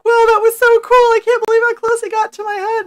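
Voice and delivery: put-on high, gushing child voice; excited kids. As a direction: play a thrilled little kid. Kids rushing over excited.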